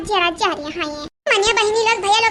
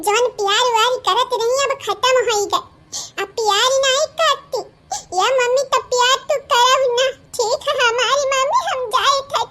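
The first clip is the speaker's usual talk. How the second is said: put-on lamenting child; 3 semitones higher than usual. Child laments lost love.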